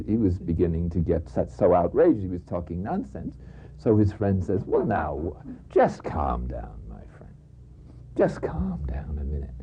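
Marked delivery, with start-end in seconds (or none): 4.6-9.5 soft, low, near-whispered calming; soothing calm-down. Acted. Friend calms the outraged companion.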